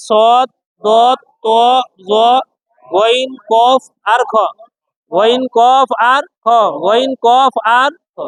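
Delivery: slow, drawn-out "সদ, দত, ত, জ, গইন" with rounded o; heavy letter pronunciation. Shown as a demonstration. Teacher drilling the seven heavy letters, slow and rounded "সদ, দত". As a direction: recite "গইন, কফ আর খ" heavy and stretched, no aa. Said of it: "উচ্চারণটা মোটা হবে".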